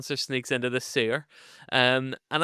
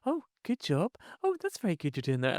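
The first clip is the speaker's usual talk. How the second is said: mock teacher praise; 6 semitones higher, 5 dB quieter than usual. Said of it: "going like".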